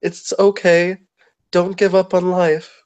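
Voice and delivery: lightly voiced kind comfort; sweet comfort. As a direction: soothe him while hugging. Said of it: "being as sweet as possible".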